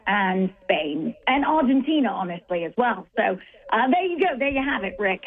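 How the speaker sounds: lightly put-on English accent, mostly her own voice; a half-hearted English accent for the listeners. Sports host to radio co-hosts, lightly mock English accent. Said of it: "Let me get my England voice now".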